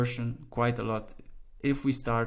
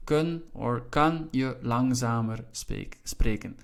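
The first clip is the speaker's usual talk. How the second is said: slow, measured Dutch example; slow model sentence; slower than usual. Shown as a demonstration. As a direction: say it slowly for learners to memorise. Teacher models Dutch sentence to learn.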